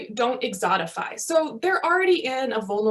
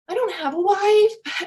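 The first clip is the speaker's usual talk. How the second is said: slow, high, loud reply in another man's voice; lightly voiced colleague, drawn out; imitating the colleague; 9 semitones higher, 5 dB louder, slower than usual. Imitating the physician colleague correcting her, slow and pitched up. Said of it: "And he's like".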